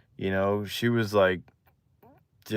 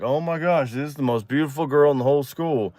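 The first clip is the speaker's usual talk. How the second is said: higher-pitched retold awe; blown away; 4 semitones higher than usual. Boy thinking of his new girlfriend, blown away. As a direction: gush through it in wonder. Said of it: "I'm just blown away".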